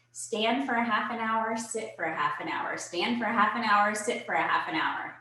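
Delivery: slightly breathless from fast talking; out of breath. Real, not acted. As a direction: talk a little short of air. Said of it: "I'm out of breath because I'm talking really fast".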